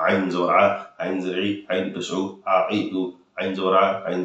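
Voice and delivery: আইন জবর আ hurried without pressure; rushed wrong way. Shown as a demonstration. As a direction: rattle it off carelessly. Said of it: "এভাবে পড়বেন না". (তাড়াহুড়ো করে ভুল পড়া)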